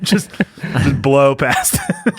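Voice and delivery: laughing. Real, not acted. Teasing co-host while laughing.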